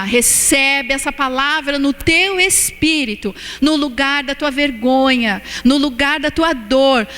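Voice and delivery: slow, earnest ministering; slow preaching. Acted. Preacher blesses the congregation, slow and earnest. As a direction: speak the blessing slowly onto each listener.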